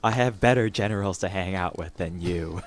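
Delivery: a hint of Paul Lynde's campy sneer; Paul Lynde impression. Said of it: "that's kind of my impression of both Paul Lynde and".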